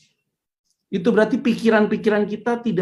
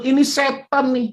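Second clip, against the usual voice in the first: mock excuse voice; 6 semitones higher than usual. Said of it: "Terus bilang".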